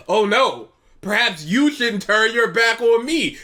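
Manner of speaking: snide. Shown as a demonstration. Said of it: "say it snidely".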